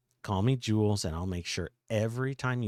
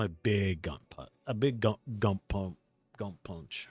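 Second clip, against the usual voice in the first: put-on nerdy boy voice; 2 semitones lower, slower than usual. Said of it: "that was my voice".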